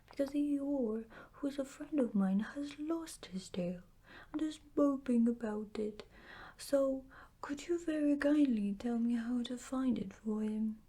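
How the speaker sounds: a hint of a worried, polite little bear; lightly voiced Pooh bear. Pooh asks Owl for help.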